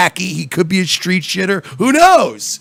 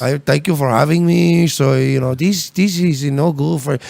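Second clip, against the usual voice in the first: mock aristocratic Mexican accent. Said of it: "aristocratic Mexican accent".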